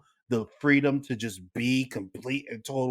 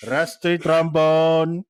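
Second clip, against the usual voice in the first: put-on Indian accent; 3 semitones higher than usual. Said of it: "Why are you doing it in the Indian accent?".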